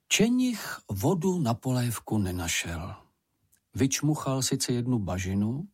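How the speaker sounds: ordinary delivery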